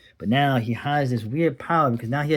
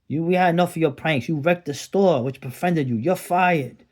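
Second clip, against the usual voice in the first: higher, raised voice firing him; a boss firing a kid, raised and high; angry boss; 5 semitones higher than usual. Acted. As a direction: bark out the firing like a fed-up boss.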